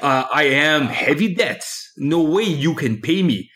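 slow, drawn-out wrestler boast; wrestling promo. Pretend. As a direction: growl it out like a wrestler. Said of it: "devolved into a wrestling promo thon".

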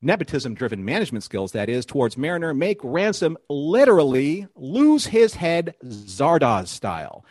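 TV recap announcer, deliberate phrasing. Pretend. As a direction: read it like a show's "previously on" narrator. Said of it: "my announcer voice on".

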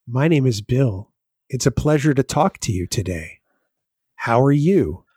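polite recorded greeting; cheerful call centre agent; phone menu voice. Pretend. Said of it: "acts out hotline greeting".

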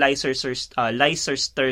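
'Leicester' as LAI-ses-ter, stumbling; mistaken reading. Shown as a demonstration. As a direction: trip over 'Leicester' read as spelt. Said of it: "Akala ko ganun siya i-pronounce".

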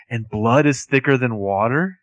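slow, mock-sarcastic question; drawn-out sarcastic quote; super sarcastic. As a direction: lay on the sarcasm slowly, imitating her. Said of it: "Melissa's super sarcastic".

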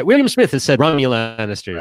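lightly put-on, jaunty British voice; jaunty British accent. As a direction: give it a jaunty British lilt. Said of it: "a jaunty British accent".

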